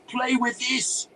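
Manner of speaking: high, slow, loud taunt; drawn-out exultant wizard shout; triumphant yell. A narrator's reading. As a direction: yell it as you unleash a spell. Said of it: "the wizard yelled triumphantly".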